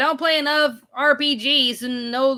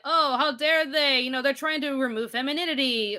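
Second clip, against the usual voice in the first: higher-pitched mock indignation; mock uppity; 5 semitones higher than usual. Streamer mimicking offended people over Minnie's pants, mock uppity. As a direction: imitate someone getting huffy, pitched up. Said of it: "people getting uppity, being all like".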